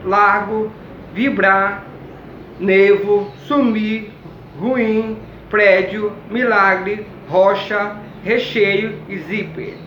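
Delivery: each word spoken clearly and apart; slow dictation. Shown as a demonstration. Teacher dictating a word list to the class, slow and clear. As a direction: read the list out slowly to pupils.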